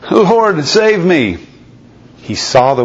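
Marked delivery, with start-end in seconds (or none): 0.1-1.4 sinking Peter crying out to be saved; cry for help. Acted. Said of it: "he cried out".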